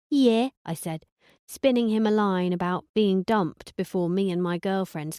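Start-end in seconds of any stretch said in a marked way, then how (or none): 0.1-0.5 put-on higher, louder girly yeah; chirpy put-on Hillary; Hillary twang. Narrator as Hillary answering Conan, higher girly twang. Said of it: "Hillary twang".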